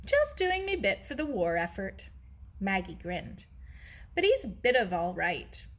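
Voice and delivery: cheeky girl teasing her friend, lightly voiced; teasing Maggie. Maggie teasing, cockney-ish voice.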